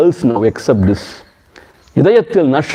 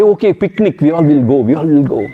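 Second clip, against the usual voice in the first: excited cheer. Retold or imitated. Students cheering a picnic plan.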